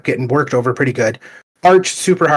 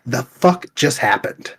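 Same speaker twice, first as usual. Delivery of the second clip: bewildered; slower than usual. Retold or imitated. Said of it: "I was just like".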